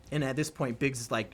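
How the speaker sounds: ordinary talk, nothing marked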